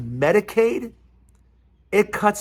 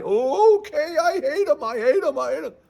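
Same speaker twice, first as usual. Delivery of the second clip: high-pitched, hammed-up knee-jerk hatred; mock gullible voter; 10 semitones higher than usual. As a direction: chant it eagerly, fading out, in parody. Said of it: "and you guys go".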